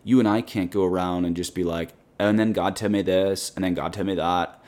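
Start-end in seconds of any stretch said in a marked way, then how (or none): 2.2-4.6 put-on light Valley Girl accent. Host mocking people who claim God told them, light Valley Girl accent. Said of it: "Sorry to do the Valley Girl accent there".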